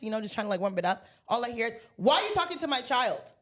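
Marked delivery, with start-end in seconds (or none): 2.0-3.3 confrontational mother. Retold or imitated. Mother confronting a stranger over her child, indignant.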